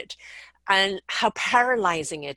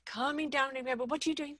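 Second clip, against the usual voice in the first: soft; 4 semitones higher, 7 dB quieter, faster than usual. Shown as a demonstration. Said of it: "even the way you're saying it".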